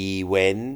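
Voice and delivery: event said ee-wen, T dropped; heard Thai mispronunciation. Retold or imitated. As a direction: imitate the ee-wen pronunciation. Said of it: "ผมเคยได้ยิน". (ออกเสียง event แบบ อีเว้น ที่เคยได้ยิน)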